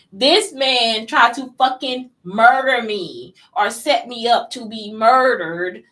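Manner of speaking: slow, loud, heated emphasis; indignant rant, drawn out and loud; angry outburst. Real, not acted. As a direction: lean hard into every word, furious. Ranting about attempted murder.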